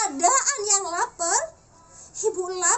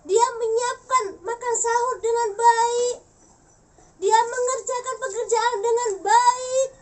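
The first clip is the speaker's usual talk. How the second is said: raised, emphatic admiration; moved husband; 4 semitones higher, 4 dB louder than usual. Shown as a demonstration. Husband praising his wife to Allah, deeply moved. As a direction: marvel at her, voice lifted. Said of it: "seorang suami akan terharu".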